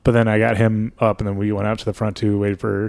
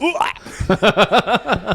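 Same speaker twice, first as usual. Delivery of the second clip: mock retching noise; 12 semitones higher than usual. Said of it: "I just went".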